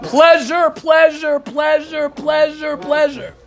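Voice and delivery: high-pitched, ringing repeats of one word; fervent teacher chanting out the key word; excited insistent repetition. Real, not acted.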